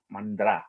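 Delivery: "mandra" said with a clear d, not t; mandra, not mantra. Shown as a demonstration. Teacher corrects the word for listeners: "mandra" with a d. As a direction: stress the d in "mandra". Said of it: "Not mantra".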